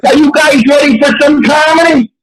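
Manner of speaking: high-pitched, hammed-up show opener; mock hype. Comic hyping four confused elderly men, mock hype. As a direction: pitch it up like rousing a crowd.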